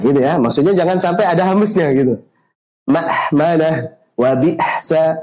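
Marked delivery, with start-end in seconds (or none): 2.9-5.2 Ma'manah wa bi'sa drawn out, no breath; slow careful hamzah. Shown as a demonstration. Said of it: "jangan sampai ada apa? Hamesnya".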